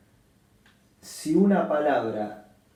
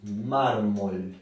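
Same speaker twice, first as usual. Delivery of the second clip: mármol with MÁR leaned on; stress on MÁR; 2 semitones lower than usual. Shown as a demonstration. Teacher modelling the stress of mármol. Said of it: "se acentúa en la penúltima sílaba".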